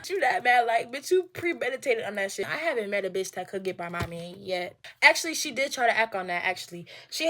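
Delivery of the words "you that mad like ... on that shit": mocking shout. Real, not acted. Mocking the rival.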